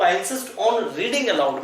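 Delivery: very slow, word by word; slow dictation. Shown as a demonstration. Teacher dictating a sentence to students, very slow. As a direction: spell it out slowly so students can write.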